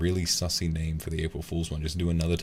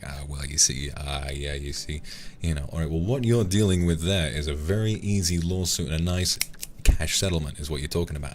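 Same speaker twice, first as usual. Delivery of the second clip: lightly voiced smooth lawyer; a hint of a slick lawyer easing into the pitch; smooth-talking lawyer. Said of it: "I try to be a smooth-talking lawyer".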